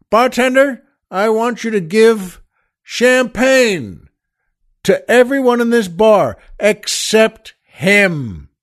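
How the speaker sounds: hammed-up order with a snub at the end. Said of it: "and he screams again".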